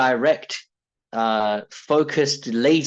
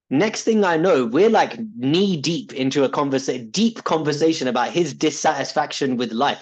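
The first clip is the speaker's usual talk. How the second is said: excited storytelling; 3 semitones higher than usual. Real, not acted. Excited retelling of neighbour chat.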